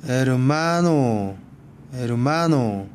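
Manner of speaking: 에르마노 with the stress held on 마. Shown as a demonstration. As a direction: lean on 마 each time in 에르마노. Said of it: "끝에서 두 번째". (에르마노의 '마'에 강세)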